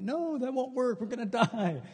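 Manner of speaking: high, laughing despair; joking doom; mock desperation. Refuses the appointment in panic.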